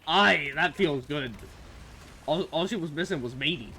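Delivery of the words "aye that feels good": pirate voice. Retold or imitated. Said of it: "talk like a pirate".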